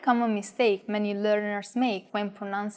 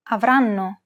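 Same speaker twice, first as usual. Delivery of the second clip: Avranno with RAN a touch longer and louder; light stress on RAN; 4 dB louder than usual. Shown as a demonstration. Teacher shows gentle Italian stress on Avranno. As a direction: nudge RAN in Avranno just slightly. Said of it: "pronounce this a tiny, tiny bit longer and louder".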